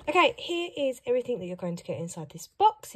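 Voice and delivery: normal talking voice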